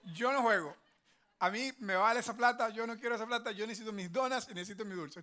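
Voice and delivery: loud defiant refusal. Retold or imitated. Middle son loudly refusing the no-sugar challenge, defiant. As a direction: shout it like a stubborn boy who wants his donuts.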